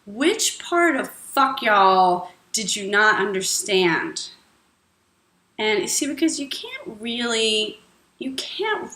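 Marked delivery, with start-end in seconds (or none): 0.1-4.3 sarcastic retort. Shown as a demonstration. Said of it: "And then you'd say".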